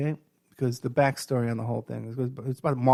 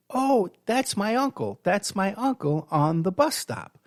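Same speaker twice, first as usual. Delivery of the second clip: quoting his date; 6 semitones higher, slower than usual. Retold or imitated. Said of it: "she goes".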